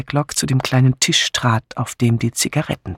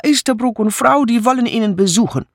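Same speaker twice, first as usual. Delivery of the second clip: high, fast foreign maid voice; excited foreign housemaid; Mitzi's announcement; 10 semitones higher, faster than usual. A narrator's reading. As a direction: blurt it out quickly in a foreign accent. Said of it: "verkündete sie".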